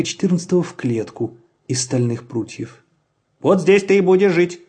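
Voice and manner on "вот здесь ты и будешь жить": man's voice. A narrator's reading. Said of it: "сказал человек".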